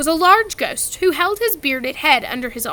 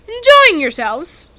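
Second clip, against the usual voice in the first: genteel ghost host; 6 semitones higher, 8 dB louder, slower than usual. A narrator's reading. Nick greets the guests.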